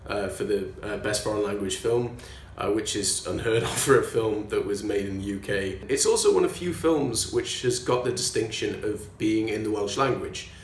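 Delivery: a put-on Welsh accent, held throughout. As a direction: talk in a lilting Welsh accent. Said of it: "I'm gonna do this in a Welsh accent".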